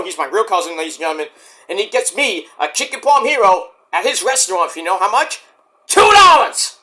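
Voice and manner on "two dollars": high, loud gleeful boast; excited exclamation. Real, not acted. Telling viewers his cousin's price, high and loud. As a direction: crow about the bargain. Bragging about cheap sandwich.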